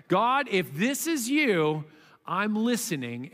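slow, sincere, open prayer; gentle prayer. Shown as a demonstration. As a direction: pray it slowly and gently. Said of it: "good gimme prayer".

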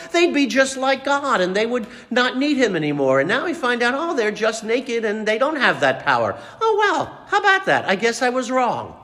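high, sarcastic fake surprise; a sly devil pretending to be shocked; mock surprised devil. Devil mocks the fallen pair with fake surprise. Satan voiced feigning surprise.

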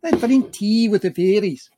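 playful Irish brogue; Irish accent. Pretend. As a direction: whimsical put-on Irish lilt. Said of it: "You can be Irish".

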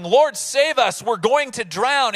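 shouting. Acted. Disciples waking Jesus in a storm, shouting. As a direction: cry out to be saved from drowning. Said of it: "woke Jesus up shouting".

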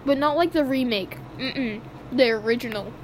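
talking through a mouthful; eating while talking; chewing while talking. Real, not acted. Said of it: "can hear me eating".

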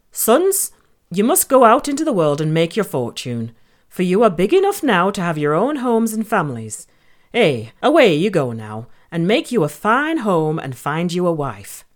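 mother pig voice. Acted. Mother Pig sends sons away.

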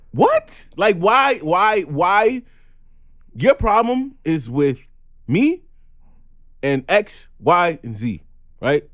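loud, high, drawn-out whys; fed up and demanding answers; exasperated rant. Real, not acted. Angry rant at a person.

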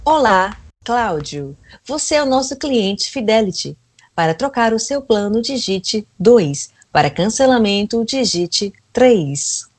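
automated phone menu, robotic. Pretend. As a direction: recite like an IVR robot. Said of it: "eu tô tendo que fazer a robô".

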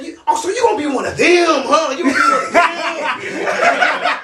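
hammed-up indignant taunt; mocking outrage. Resident accusing the storyteller of being one of them, outraged.

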